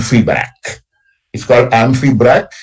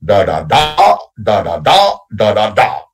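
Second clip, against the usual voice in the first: "da da da" in threes, stress on each last "da"; two light "da"s then a stressed "da", repeated; anapestic beat. Shown as a demonstration. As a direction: tap out the meter, landing on the third "da". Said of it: "remember that you go da da da".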